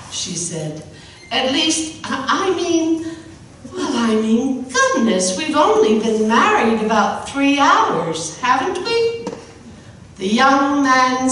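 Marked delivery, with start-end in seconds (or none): 1.3-9.3 higher, stammering with nervous laughs; a flustered new bride, lightly voiced. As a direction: stumble over the words, embarrassed.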